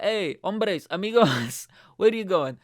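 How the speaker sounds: high, loud mock-friendly hail; imitated loud, jolly greeting; calling out. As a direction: holler over to a group of strangers. Retold calling out to Spanish passengers.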